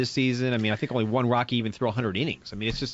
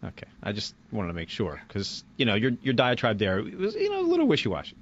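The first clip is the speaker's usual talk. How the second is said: sarcastic understatement. Pretend. Co-host calling Keith's diatribe wishy-washy, sarcastic. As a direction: play innocent, then lift the pitch for the tease. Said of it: "All right, that's sarcasm".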